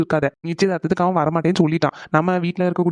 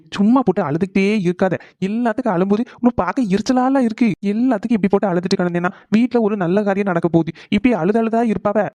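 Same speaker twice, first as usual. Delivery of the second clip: irritated scolding; 4 semitones higher than usual. Acted. Husband scolds crying wife.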